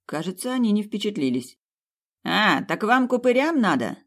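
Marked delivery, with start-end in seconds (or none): 2.2-4.0 high, gleeful question; delighted, lifted pitch; joyful question. A narrator's reading. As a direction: ask it with cheerful eagerness. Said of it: "радостно спросил чернявый".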